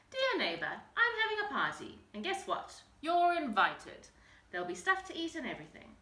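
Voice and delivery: bright, eager party invite; excited invitation. Acted. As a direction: read it with bouncy excitement.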